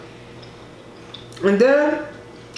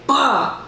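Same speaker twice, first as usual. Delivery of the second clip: punch sound effect; 4 semitones higher than usual. Retold or imitated. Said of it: "punched me so hard".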